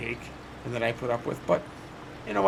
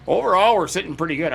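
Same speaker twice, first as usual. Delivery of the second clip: proud and pleased; 4 semitones higher, 7 dB louder than usual. Real, not acted. Happy summary of the farm.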